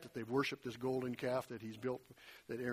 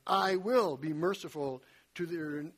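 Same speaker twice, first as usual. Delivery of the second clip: "will" drawn out and weighted; stressed I will. Shown as a demonstration. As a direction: linger on "will". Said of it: "I emphasized them as I read them".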